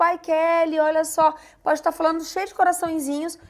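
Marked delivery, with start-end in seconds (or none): 0.0-1.3 higher-pitched casual friendly address; easygoing, friendly. Acted. Imagined sender messaging Kelly with no bad intent, friendly. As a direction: say it kindly, no edge at all. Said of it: "pode tá dizendo numa boa".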